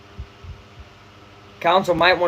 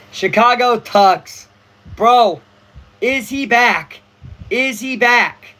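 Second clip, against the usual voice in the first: excited; 5 semitones higher, 6 dB louder, much slower than usual. Real, not acted. Excited about Tucker homer.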